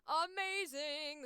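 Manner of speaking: loud, high, stretched-out praise; slow, ringing cheer of approval; delighted exclamation. Real, not acted. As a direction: belt it out with delight. Delighted by listing.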